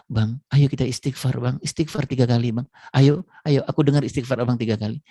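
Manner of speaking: eager wife. Retold or imitated. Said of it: "istrinya yang semangat empat lima".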